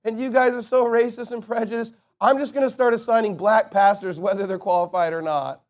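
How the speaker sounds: a hint of a simpering pastor apologizing to his church; mocking David Platt. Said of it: "This is David Platt getting in front of his church".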